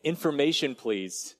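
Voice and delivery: light call of information please, dropping on please; a child's polite request on the phone; boy asking the operator. Retold or imitated. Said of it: "you said".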